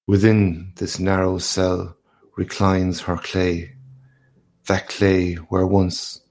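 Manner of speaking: slow, measured poem reading; reading verse. A narrator's reading. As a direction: read the lines slowly like verse. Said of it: "his eyes began to read the second stanza".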